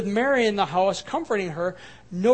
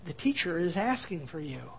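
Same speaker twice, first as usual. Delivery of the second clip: softer, hushed aside to her sister; quiet; 3 semitones lower, 6 dB quieter than usual. Retold or imitated. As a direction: say it softly so nobody else hears. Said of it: "says quietly to him".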